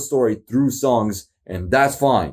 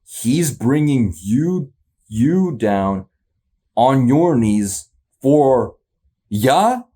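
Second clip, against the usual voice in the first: slow questioning; much slower than usual. Shown as a demonstration. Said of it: "That's Zeus saying that".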